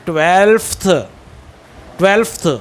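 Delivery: ट्वेल्फ्थ repeated with the f sounded; correct twelfth. Shown as a demonstration. Teacher drilling ट्वेल्फ्थ twice for the class, f clear. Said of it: "फ बोला जाएगा".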